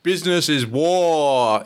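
slow, grand game show host. Acted. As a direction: announce it like a quiz host. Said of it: "read it like a game show host".

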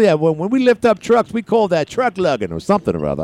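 high mock southern accent; put-on southern ad voice, high and punchy; Southern Chuck. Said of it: "Southern Chuck".

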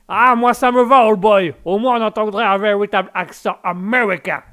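put-on English accent. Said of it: "au niveau de l'accent anglais".

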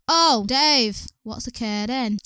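put-on a go at a mild Welsh accent; attempted Welsh accent. Podcast host quoting a sitcom to friends, attempted Welsh accent. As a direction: imitate a Welsh catchphrase, accent half there. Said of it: "Can't do a Welsh accent".

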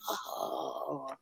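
high, drawn-out mock cheer; hushed "oh" rising into a slow, high cheer; retold cheering. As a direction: softly imitate nurses cheering someone on. Nurses cheering the patient on.

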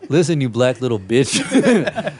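slow, breaking into laughter through the insult; laughing while reading. Real, not acted. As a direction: read the insult barely holding in the laughs.

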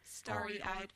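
quiet, flat robot voice. Shown as a demonstration. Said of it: "enter a robot voice for all of these".

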